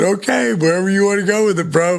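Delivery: retold wary agreement. Retold thought, agreeing warily to topic.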